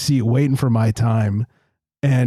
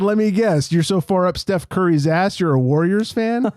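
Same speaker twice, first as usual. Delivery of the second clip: mock sarcastic; 6 semitones higher than usual. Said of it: "I, I said".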